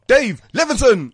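high, loud, slow stage announcement; drawn-out comedian intro; MC introduction. Shown as a demonstration. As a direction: announce the act to the room. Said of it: "it's easy to go".

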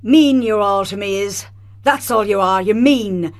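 Irish line from the play, said with a touch of heat; Irish accent demo. Shown as a demonstration. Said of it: "Give me a bit of an example of the Irish accent".

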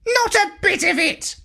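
high indignant squawk; parrot exclaiming. A narrator's reading. Parrot denying he competes with his ex, high squawk. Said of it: "exclaimed the parrot".

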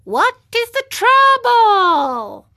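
high, slow twanging fish voice; out-of-tune guitar voice. A narrator's reading. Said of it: "like a guitar out of tune".

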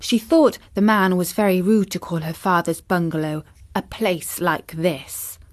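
ordinary delivery, nothing marked

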